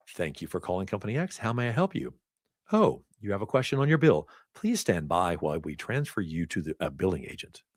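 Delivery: receptionist voice. Acted. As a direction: answer like a friendly call-center receptionist. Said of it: "there's my receptionist voice".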